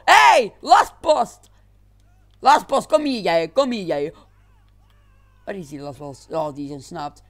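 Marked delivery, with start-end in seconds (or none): 0.0-4.1 high, slow, drawn-out shout; calling out. Real, not acted. Gamer yells after the nuisance running off, drawn-out shout. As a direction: yell across the street to grab his attention.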